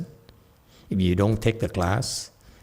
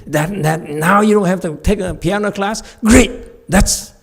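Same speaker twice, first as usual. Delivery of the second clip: higher, louder upbeat invitation; cheerful parent imitation; 7 semitones higher, 5 dB louder than usual. Dad eagerly inviting his son out, upbeat. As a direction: sell the ice cream trip eagerly. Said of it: "so he said".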